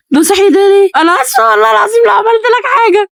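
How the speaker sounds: high, near-tearful apology; frightened, crying plea; terrified pleading. Real, not acted. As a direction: beg for mercy in panic. Terrified apology to game creature.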